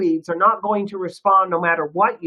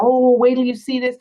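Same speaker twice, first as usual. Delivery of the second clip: excited; 4 semitones higher, 4 dB louder than usual. Shown as a demonstration. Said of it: "you can get people excited".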